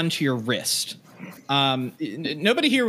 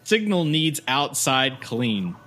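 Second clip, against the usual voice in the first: lightly voiced simple brute explaining a chore; a plodding creature asking for help; dim creature pleading; slower than usual.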